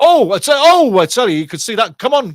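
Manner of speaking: sudden high, loud, excited outburst.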